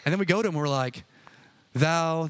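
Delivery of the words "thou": lightly hammed-up pious address; a touch of pompous praying; mock prayer voice. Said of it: "what happened to his voice".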